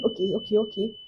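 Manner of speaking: very soft resigned okays; meek okay. Retold or imitated. Agreeing to the scammers, very softly. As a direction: give in quietly.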